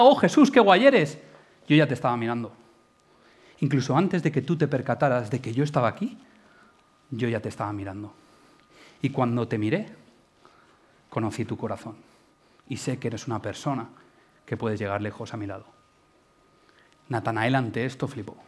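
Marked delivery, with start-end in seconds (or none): 0.0-1.2 slow, higher, gushing fan praise; a hint of a sugary admirer; mock adoring. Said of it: "todo el mundo me dijera". 1.7-15.6 calm, sincere reassurance fading to near whisper; tender, reassuring. Retold or imitated. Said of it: "no se lo dice así, pero estoy traduciendo".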